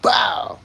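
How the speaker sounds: sudden high "bow!" like a landed punch; punch sound. Retold or imitated. Streamer mimicking a left hook landing, punch sound. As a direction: pop out a punch noise.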